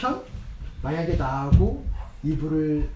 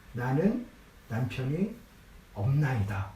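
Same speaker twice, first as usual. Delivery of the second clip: curt cut-off; 4 semitones lower than usual. Retold or imitated. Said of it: "그냥 딱 잘린 거예요".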